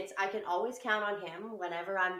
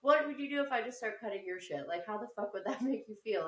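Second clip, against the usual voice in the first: higher, half-laughing mock tirade; mock angry rant; 5 semitones higher than usual. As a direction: scold the kid in a raised, hammed-up voice. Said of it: "I was like".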